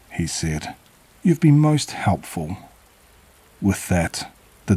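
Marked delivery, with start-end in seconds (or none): 1.2-2.6 put-on high, creepy old man; a hint of a sinister old stranger. Dodman voiced by narrator.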